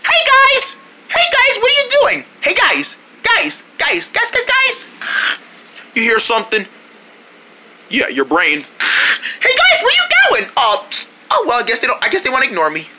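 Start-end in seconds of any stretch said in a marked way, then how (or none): 0.0-4.9 high-pitched call to friends far away. Acted. 8.6-10.5 calling after them. Acted. Calling after departing friends.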